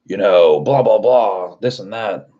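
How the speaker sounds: mock a man brushing someone off; retold flustered brush-off. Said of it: "he, like, started freaking out".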